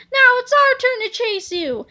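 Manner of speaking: high, loud laughing taunt; gleeful taunt. Acted. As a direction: tease the villain gleefully. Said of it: "laughed at Tippy".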